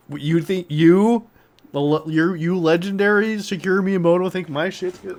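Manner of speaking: high, loud, overwhelmed stammer; starstruck disbelief. Pretend. Imagining meeting Miyamoto, high starstruck stammer. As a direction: stumble over the words, starstruck. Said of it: "I'm like".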